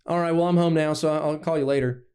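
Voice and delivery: a hint of Georgia twang; Southern twang. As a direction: put on a mild Southern accent. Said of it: "He starts talking with that twang".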